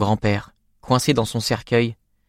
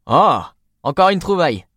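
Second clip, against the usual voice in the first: higher and louder excited cry; light up at a lucky find; delighted find; 8 semitones higher, 5 dB louder than usual. A narrator's reading. Akiba spots another book he wants, excited cry. Akiba finds more books.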